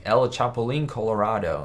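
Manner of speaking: an Americanized fake Spanish accent. Shown as a demonstration. Streamer contrasts for chat a fake, incorrect Spanish accent. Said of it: "a fake accent where it'd be like".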